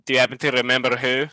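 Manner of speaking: quick question in a put-on character voice. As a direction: ask it briskly in character. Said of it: "ask that in your character voice".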